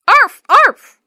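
high, loud yappy dog barks; barking dog. Acted. Little dog barking at the door. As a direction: bark like an excited little dog.

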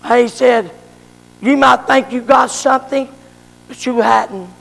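solemn prophet. Acted. Prophet pronounces doom on king.

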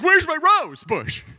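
high, loud, drawn-out wail; mock screaming wife. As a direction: imitate a distressed wife crying out. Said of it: "this scream".

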